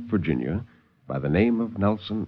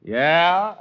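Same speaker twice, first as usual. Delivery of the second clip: curt, higher question; gruff; 9 semitones higher, 5 dB louder than usual. Acted. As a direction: bark a short question. Reporter answers the visitor.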